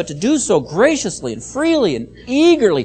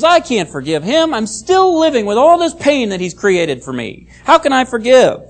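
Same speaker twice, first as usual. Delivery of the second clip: mildly indignant, pitch and volume lifted; protesting refusal to forgive; 4 semitones higher, 3 dB louder than usual. Acted. Someone who refuses to forgive answers back, mildly protesting. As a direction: push back as someone still hurting.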